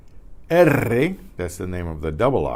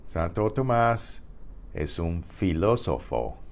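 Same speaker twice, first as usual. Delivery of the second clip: phrase by phrase; 2 semitones lower, 4 dB quieter than usual. Shown as a demonstration. Teacher breaking the sentence into chunks for students. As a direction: split into Santo Tomás, then es un filósofo. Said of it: "remember I said there's no P H in Spanish".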